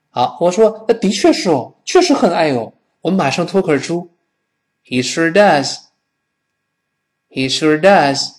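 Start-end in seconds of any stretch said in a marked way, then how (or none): 4.8-8.3 does punched with a rise and fall; stress on does. Shown as a demonstration. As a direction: land hard on the word does. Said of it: "does 也要重读哦". (重读 does)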